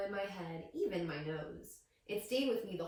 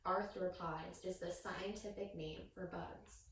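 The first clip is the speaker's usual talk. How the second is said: Arthropods said slowly and softer, each syllable clear; careful pronunciation; 6 dB quieter, slower than usual. Shown as a demonstration. Teacher modeling "Arthropods" slowly for the children. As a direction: spell out "Arthropods" for kids to copy. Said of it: "Can you guys say arthropods".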